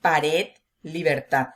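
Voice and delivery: "pared, libertad" slowly, weight on RED and TAD; slow "pared, libertad", each stressed at the end; stress on last syllables. Shown as a demonstration. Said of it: "la intensidad de la voz en la última sílaba".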